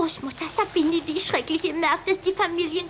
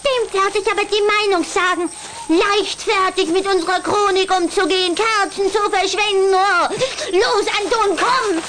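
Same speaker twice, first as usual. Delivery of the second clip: angry scolding; 4 dB louder than usual. Acted. Angry vampire girl scolding brother.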